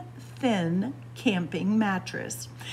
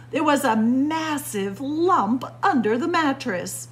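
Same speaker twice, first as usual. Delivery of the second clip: indignant guest complaint; 3 semitones higher, 5 dB louder than usual. Acted. Girl complaining about peas.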